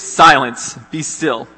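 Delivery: sharp command on Silence, read from the passage; a firm rebuke to wind and waves; rebuke to the storm. Retold or imitated. Jesus rebuking the wind and waves, a firm read command. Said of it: "he rebuked the wind and said to the waves".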